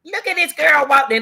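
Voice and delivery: a hint of an eager child; imitating her daughter. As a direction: daughter excitedly showing her mother a video, high voice. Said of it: "she came upstairs and said".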